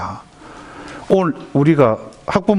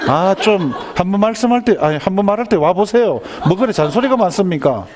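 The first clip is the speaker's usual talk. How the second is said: higher, mock-exasperated whine; exasperated son; 6 semitones higher than usual. Son scolds his nagging father, mock-exasperated and higher. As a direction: complain like a fed-up son, playfully.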